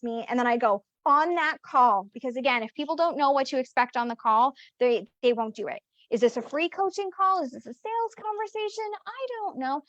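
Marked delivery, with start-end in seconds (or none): 6.1-9.8 confused prospect. Retold or imitated. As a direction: voice the lost client, pitched up and hushed. Confused prospect asking about call.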